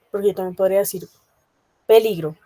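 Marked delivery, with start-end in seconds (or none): 1.9-2.4 peligro with the accent on the middle syllable LI; stress on LI. Shown as a demonstration. Teacher offers another way to say it, stressing LI in peligro. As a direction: put the force on the LI of peligro. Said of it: "el acento está en el li".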